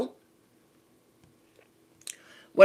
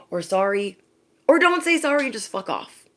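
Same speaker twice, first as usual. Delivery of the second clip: breathy start, then jumping into a high voice; high-pitched, fed-up dismissal; mock exasperation; 5 semitones higher than usual. Telling off someone who always says sorry but, high exasperated voice. Fed up with excuse-laden apologies.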